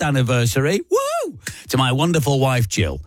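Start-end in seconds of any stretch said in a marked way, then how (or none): 0.9-1.4 much higher, a falsetto cheer; excited whoop. Real, not acted. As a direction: whoop it up for the couple. Cheering a forty-first anniversary.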